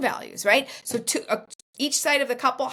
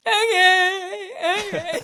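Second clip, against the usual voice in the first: her younger self agreeing; 8 semitones higher, 3 dB louder, much slower than usual. Retold or imitated. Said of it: "and I'm like".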